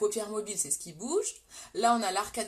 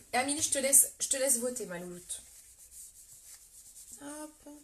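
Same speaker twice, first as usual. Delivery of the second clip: usual speaking voice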